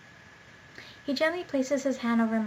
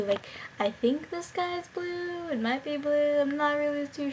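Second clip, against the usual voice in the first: sarcastic; 4 semitones higher than usual. Real, not acted. Mocking the script's punctuation.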